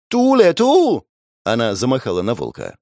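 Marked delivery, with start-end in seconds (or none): 0.1-1.1 put-on high, louder girl's cry to scare off the wolf; girl shooing wolf. Frightened girl shouts at the wolf to chase it off. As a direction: shriek at the wolf to shoo it.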